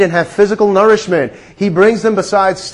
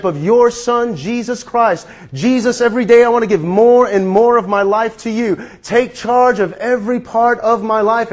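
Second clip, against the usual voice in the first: modelled prayer; 2 semitones higher than usual. Shown as a demonstration. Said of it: "By saying".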